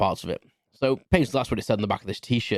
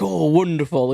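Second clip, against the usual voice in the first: put-on delighted old lady; 6 semitones higher, 5 dB louder, slower than usual. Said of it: "this little old lady".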